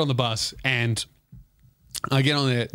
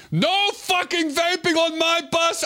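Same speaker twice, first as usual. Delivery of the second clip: high, furious yelling; the driver yelling at the vaping girls; angry shout; 14 semitones higher than usual. Retold or imitated. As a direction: bark the rule at them. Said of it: "and he goes".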